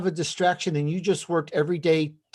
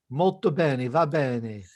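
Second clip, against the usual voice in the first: Italian; slower than usual. Pretend. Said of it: "maybe you should throw in a, an Italian accent".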